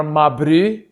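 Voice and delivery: "ma bru" with a South African oo vowel; South African pronunciation. Shown as a demonstration. Teaching South African slang, "ma bru" in South African accent. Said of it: "the words that I have for South Africa are".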